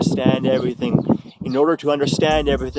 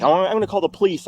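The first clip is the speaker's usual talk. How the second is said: higher, rushed warning; quick, raised-pitch imitation; imitating ex-girlfriend; 5 semitones higher, much faster than usual. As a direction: mimic her hurried threat. Voices ex threatening police.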